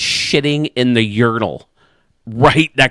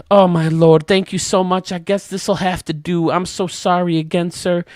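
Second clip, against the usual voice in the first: put-on higher, sweet and sorry old lady voice; higher apologetic lady; 6 semitones higher than usual. Old lady thanking the man for the toilet paper, higher and sorry. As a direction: thank him sweetly from the other side of the wall.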